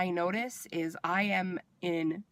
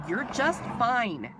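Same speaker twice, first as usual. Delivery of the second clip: slow, higher-pitched, emphatic brush-off; retold dismissive nurse; 5 semitones higher, 3 dB louder, slower than usual. Nurse brushing off a yelling patient, dismissive imitation.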